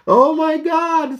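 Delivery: high, drawn-out exasperated groan. Real, not acted. Laughing at the dishwasher failing again, slow high exasperation. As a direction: stretch it out in disbelief.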